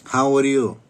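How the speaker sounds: overfriendly mock greeting; cheery act. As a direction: play it bright and reassuring. He greets the crazy lady.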